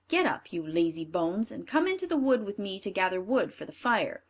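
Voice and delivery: a hint of a cruel stepmother; wicked stepmother. Stepmother wakes children.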